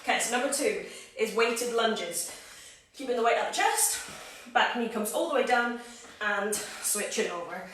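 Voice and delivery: breathless coaching cues; puffing between instructions; out of breath. Real, not acted. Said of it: "Why am I this out of breath?".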